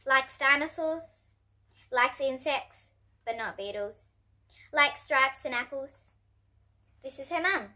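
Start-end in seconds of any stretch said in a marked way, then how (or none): 3.2-4.1 soft unvoiced whisper; whispered aside. Narrator sharing a secret with kids, whispered.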